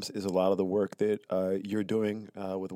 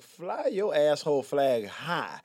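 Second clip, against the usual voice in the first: mock defiance; 10 semitones higher, 6 dB louder than usual. Mock defiance about rebel flag.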